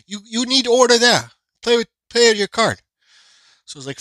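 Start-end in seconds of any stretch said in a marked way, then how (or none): 0.1-2.8 high mock voice of the cashier, pitched up; imitating the cashier. Retelling the hot dog cashier's order, mock high voice. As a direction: put on the cashier's voice, higher and a bit louder.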